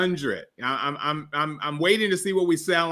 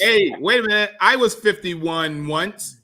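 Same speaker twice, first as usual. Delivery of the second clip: put-on old prospector; 3 semitones higher than usual. Mock old man.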